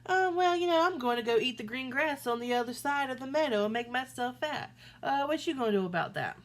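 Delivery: big goat taunting the troll, quick and loud; cocky big goat. Acted.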